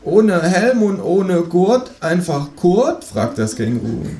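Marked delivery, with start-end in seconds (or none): 0.0-3.0 high, slow sing-song kangaroo; kangaroo quoting a song. Acted. Kangaroo teasing the narrator about his first record, high and slow. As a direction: savour the silly lyric, slow and high.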